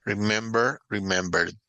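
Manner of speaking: remember and remembered in careful English; English pronunciation model. Shown as a demonstration. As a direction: model the English past form. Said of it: "el acento no va en la última sílaba".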